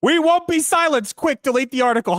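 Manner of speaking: high, sarcastic mock panic. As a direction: parody the hypocrisy. Mocking the developers' hypocrisy.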